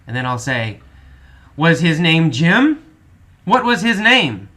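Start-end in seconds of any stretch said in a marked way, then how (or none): 1.5-4.5 louder, emphatic teacher's questioning; simple quiz questions. Shown as a demonstration. Teacher asking students easy questions about a story, emphatic quizzing. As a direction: quiz the class clearly and pointedly. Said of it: "I ask a lot of easy questions".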